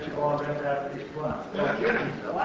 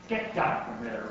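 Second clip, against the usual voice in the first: low storybook order, not raised; guard's order; 6 semitones lower than usual. A narrator's reading. Guard to monkey on skeleton, low order. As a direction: order him down in a lower voice. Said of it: "ordered one of them".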